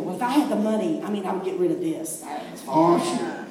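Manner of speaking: laughing mock vanity. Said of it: "We go".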